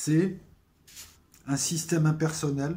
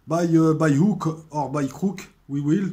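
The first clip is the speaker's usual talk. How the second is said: put-on louder, higher English lines with a French accent; dialogue récité; 3 semitones higher, 7 dB louder, slower than usual. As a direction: replay the series' interrogation as both men. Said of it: "ce dialogue". (dialogue du Prisonnier joué, plus fort et plus aigu)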